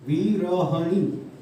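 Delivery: विरहणी spoken very slowly, syllable by syllable; slow syllable dictation. Shown as a demonstration. Teacher dictating विरहणी slowly to the class. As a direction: draw out विरहणी as if writing it on the board. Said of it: "विरहणी होती है".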